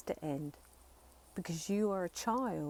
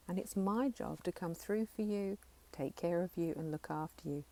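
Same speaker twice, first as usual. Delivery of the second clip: reaffirming, tender. Shown as a demonstration. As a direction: comfort a frightened child part gently. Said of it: "I'm reaffirming".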